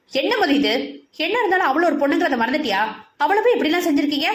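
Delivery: put-on a young man scolds his friend for ragging a girl, angrily; annoyed scolding. Satyan confronts Mathi over the ragging, growing annoyed and fast. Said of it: "அவன் கடுப்புடன்".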